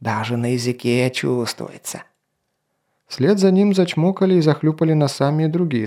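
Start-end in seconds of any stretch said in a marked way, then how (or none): 0.0-2.0 smacking lips. Acted. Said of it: "зачмокал губами".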